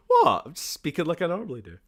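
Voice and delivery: high, loud feigned innocence; mock innocent. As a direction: squeak out a playful protest. Retelling own innocent reply.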